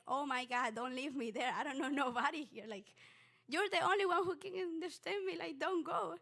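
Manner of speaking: urgent plea, rising in pitch and volume; panicked pleading. Retold or imitated. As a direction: act out begging someone not to leave. Acts out begging secretary not to leave.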